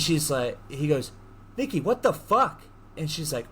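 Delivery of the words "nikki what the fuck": high-pitched acted shock; appalled outburst. He finds his cat's memorial, acted appalled outburst. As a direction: say it aghast, pitch way up.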